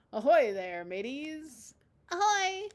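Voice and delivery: loud, high pirate hail. Acted. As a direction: bellow it across the deck. Brian greets as pirate.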